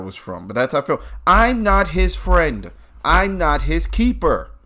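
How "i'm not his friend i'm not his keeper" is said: high, drawn-out catchphrase delivery; loud, insistent refusal; emphatic disavowal. Real, not acted. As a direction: stretch each denial up high, then drop. Reuses the show catchphrase for himself.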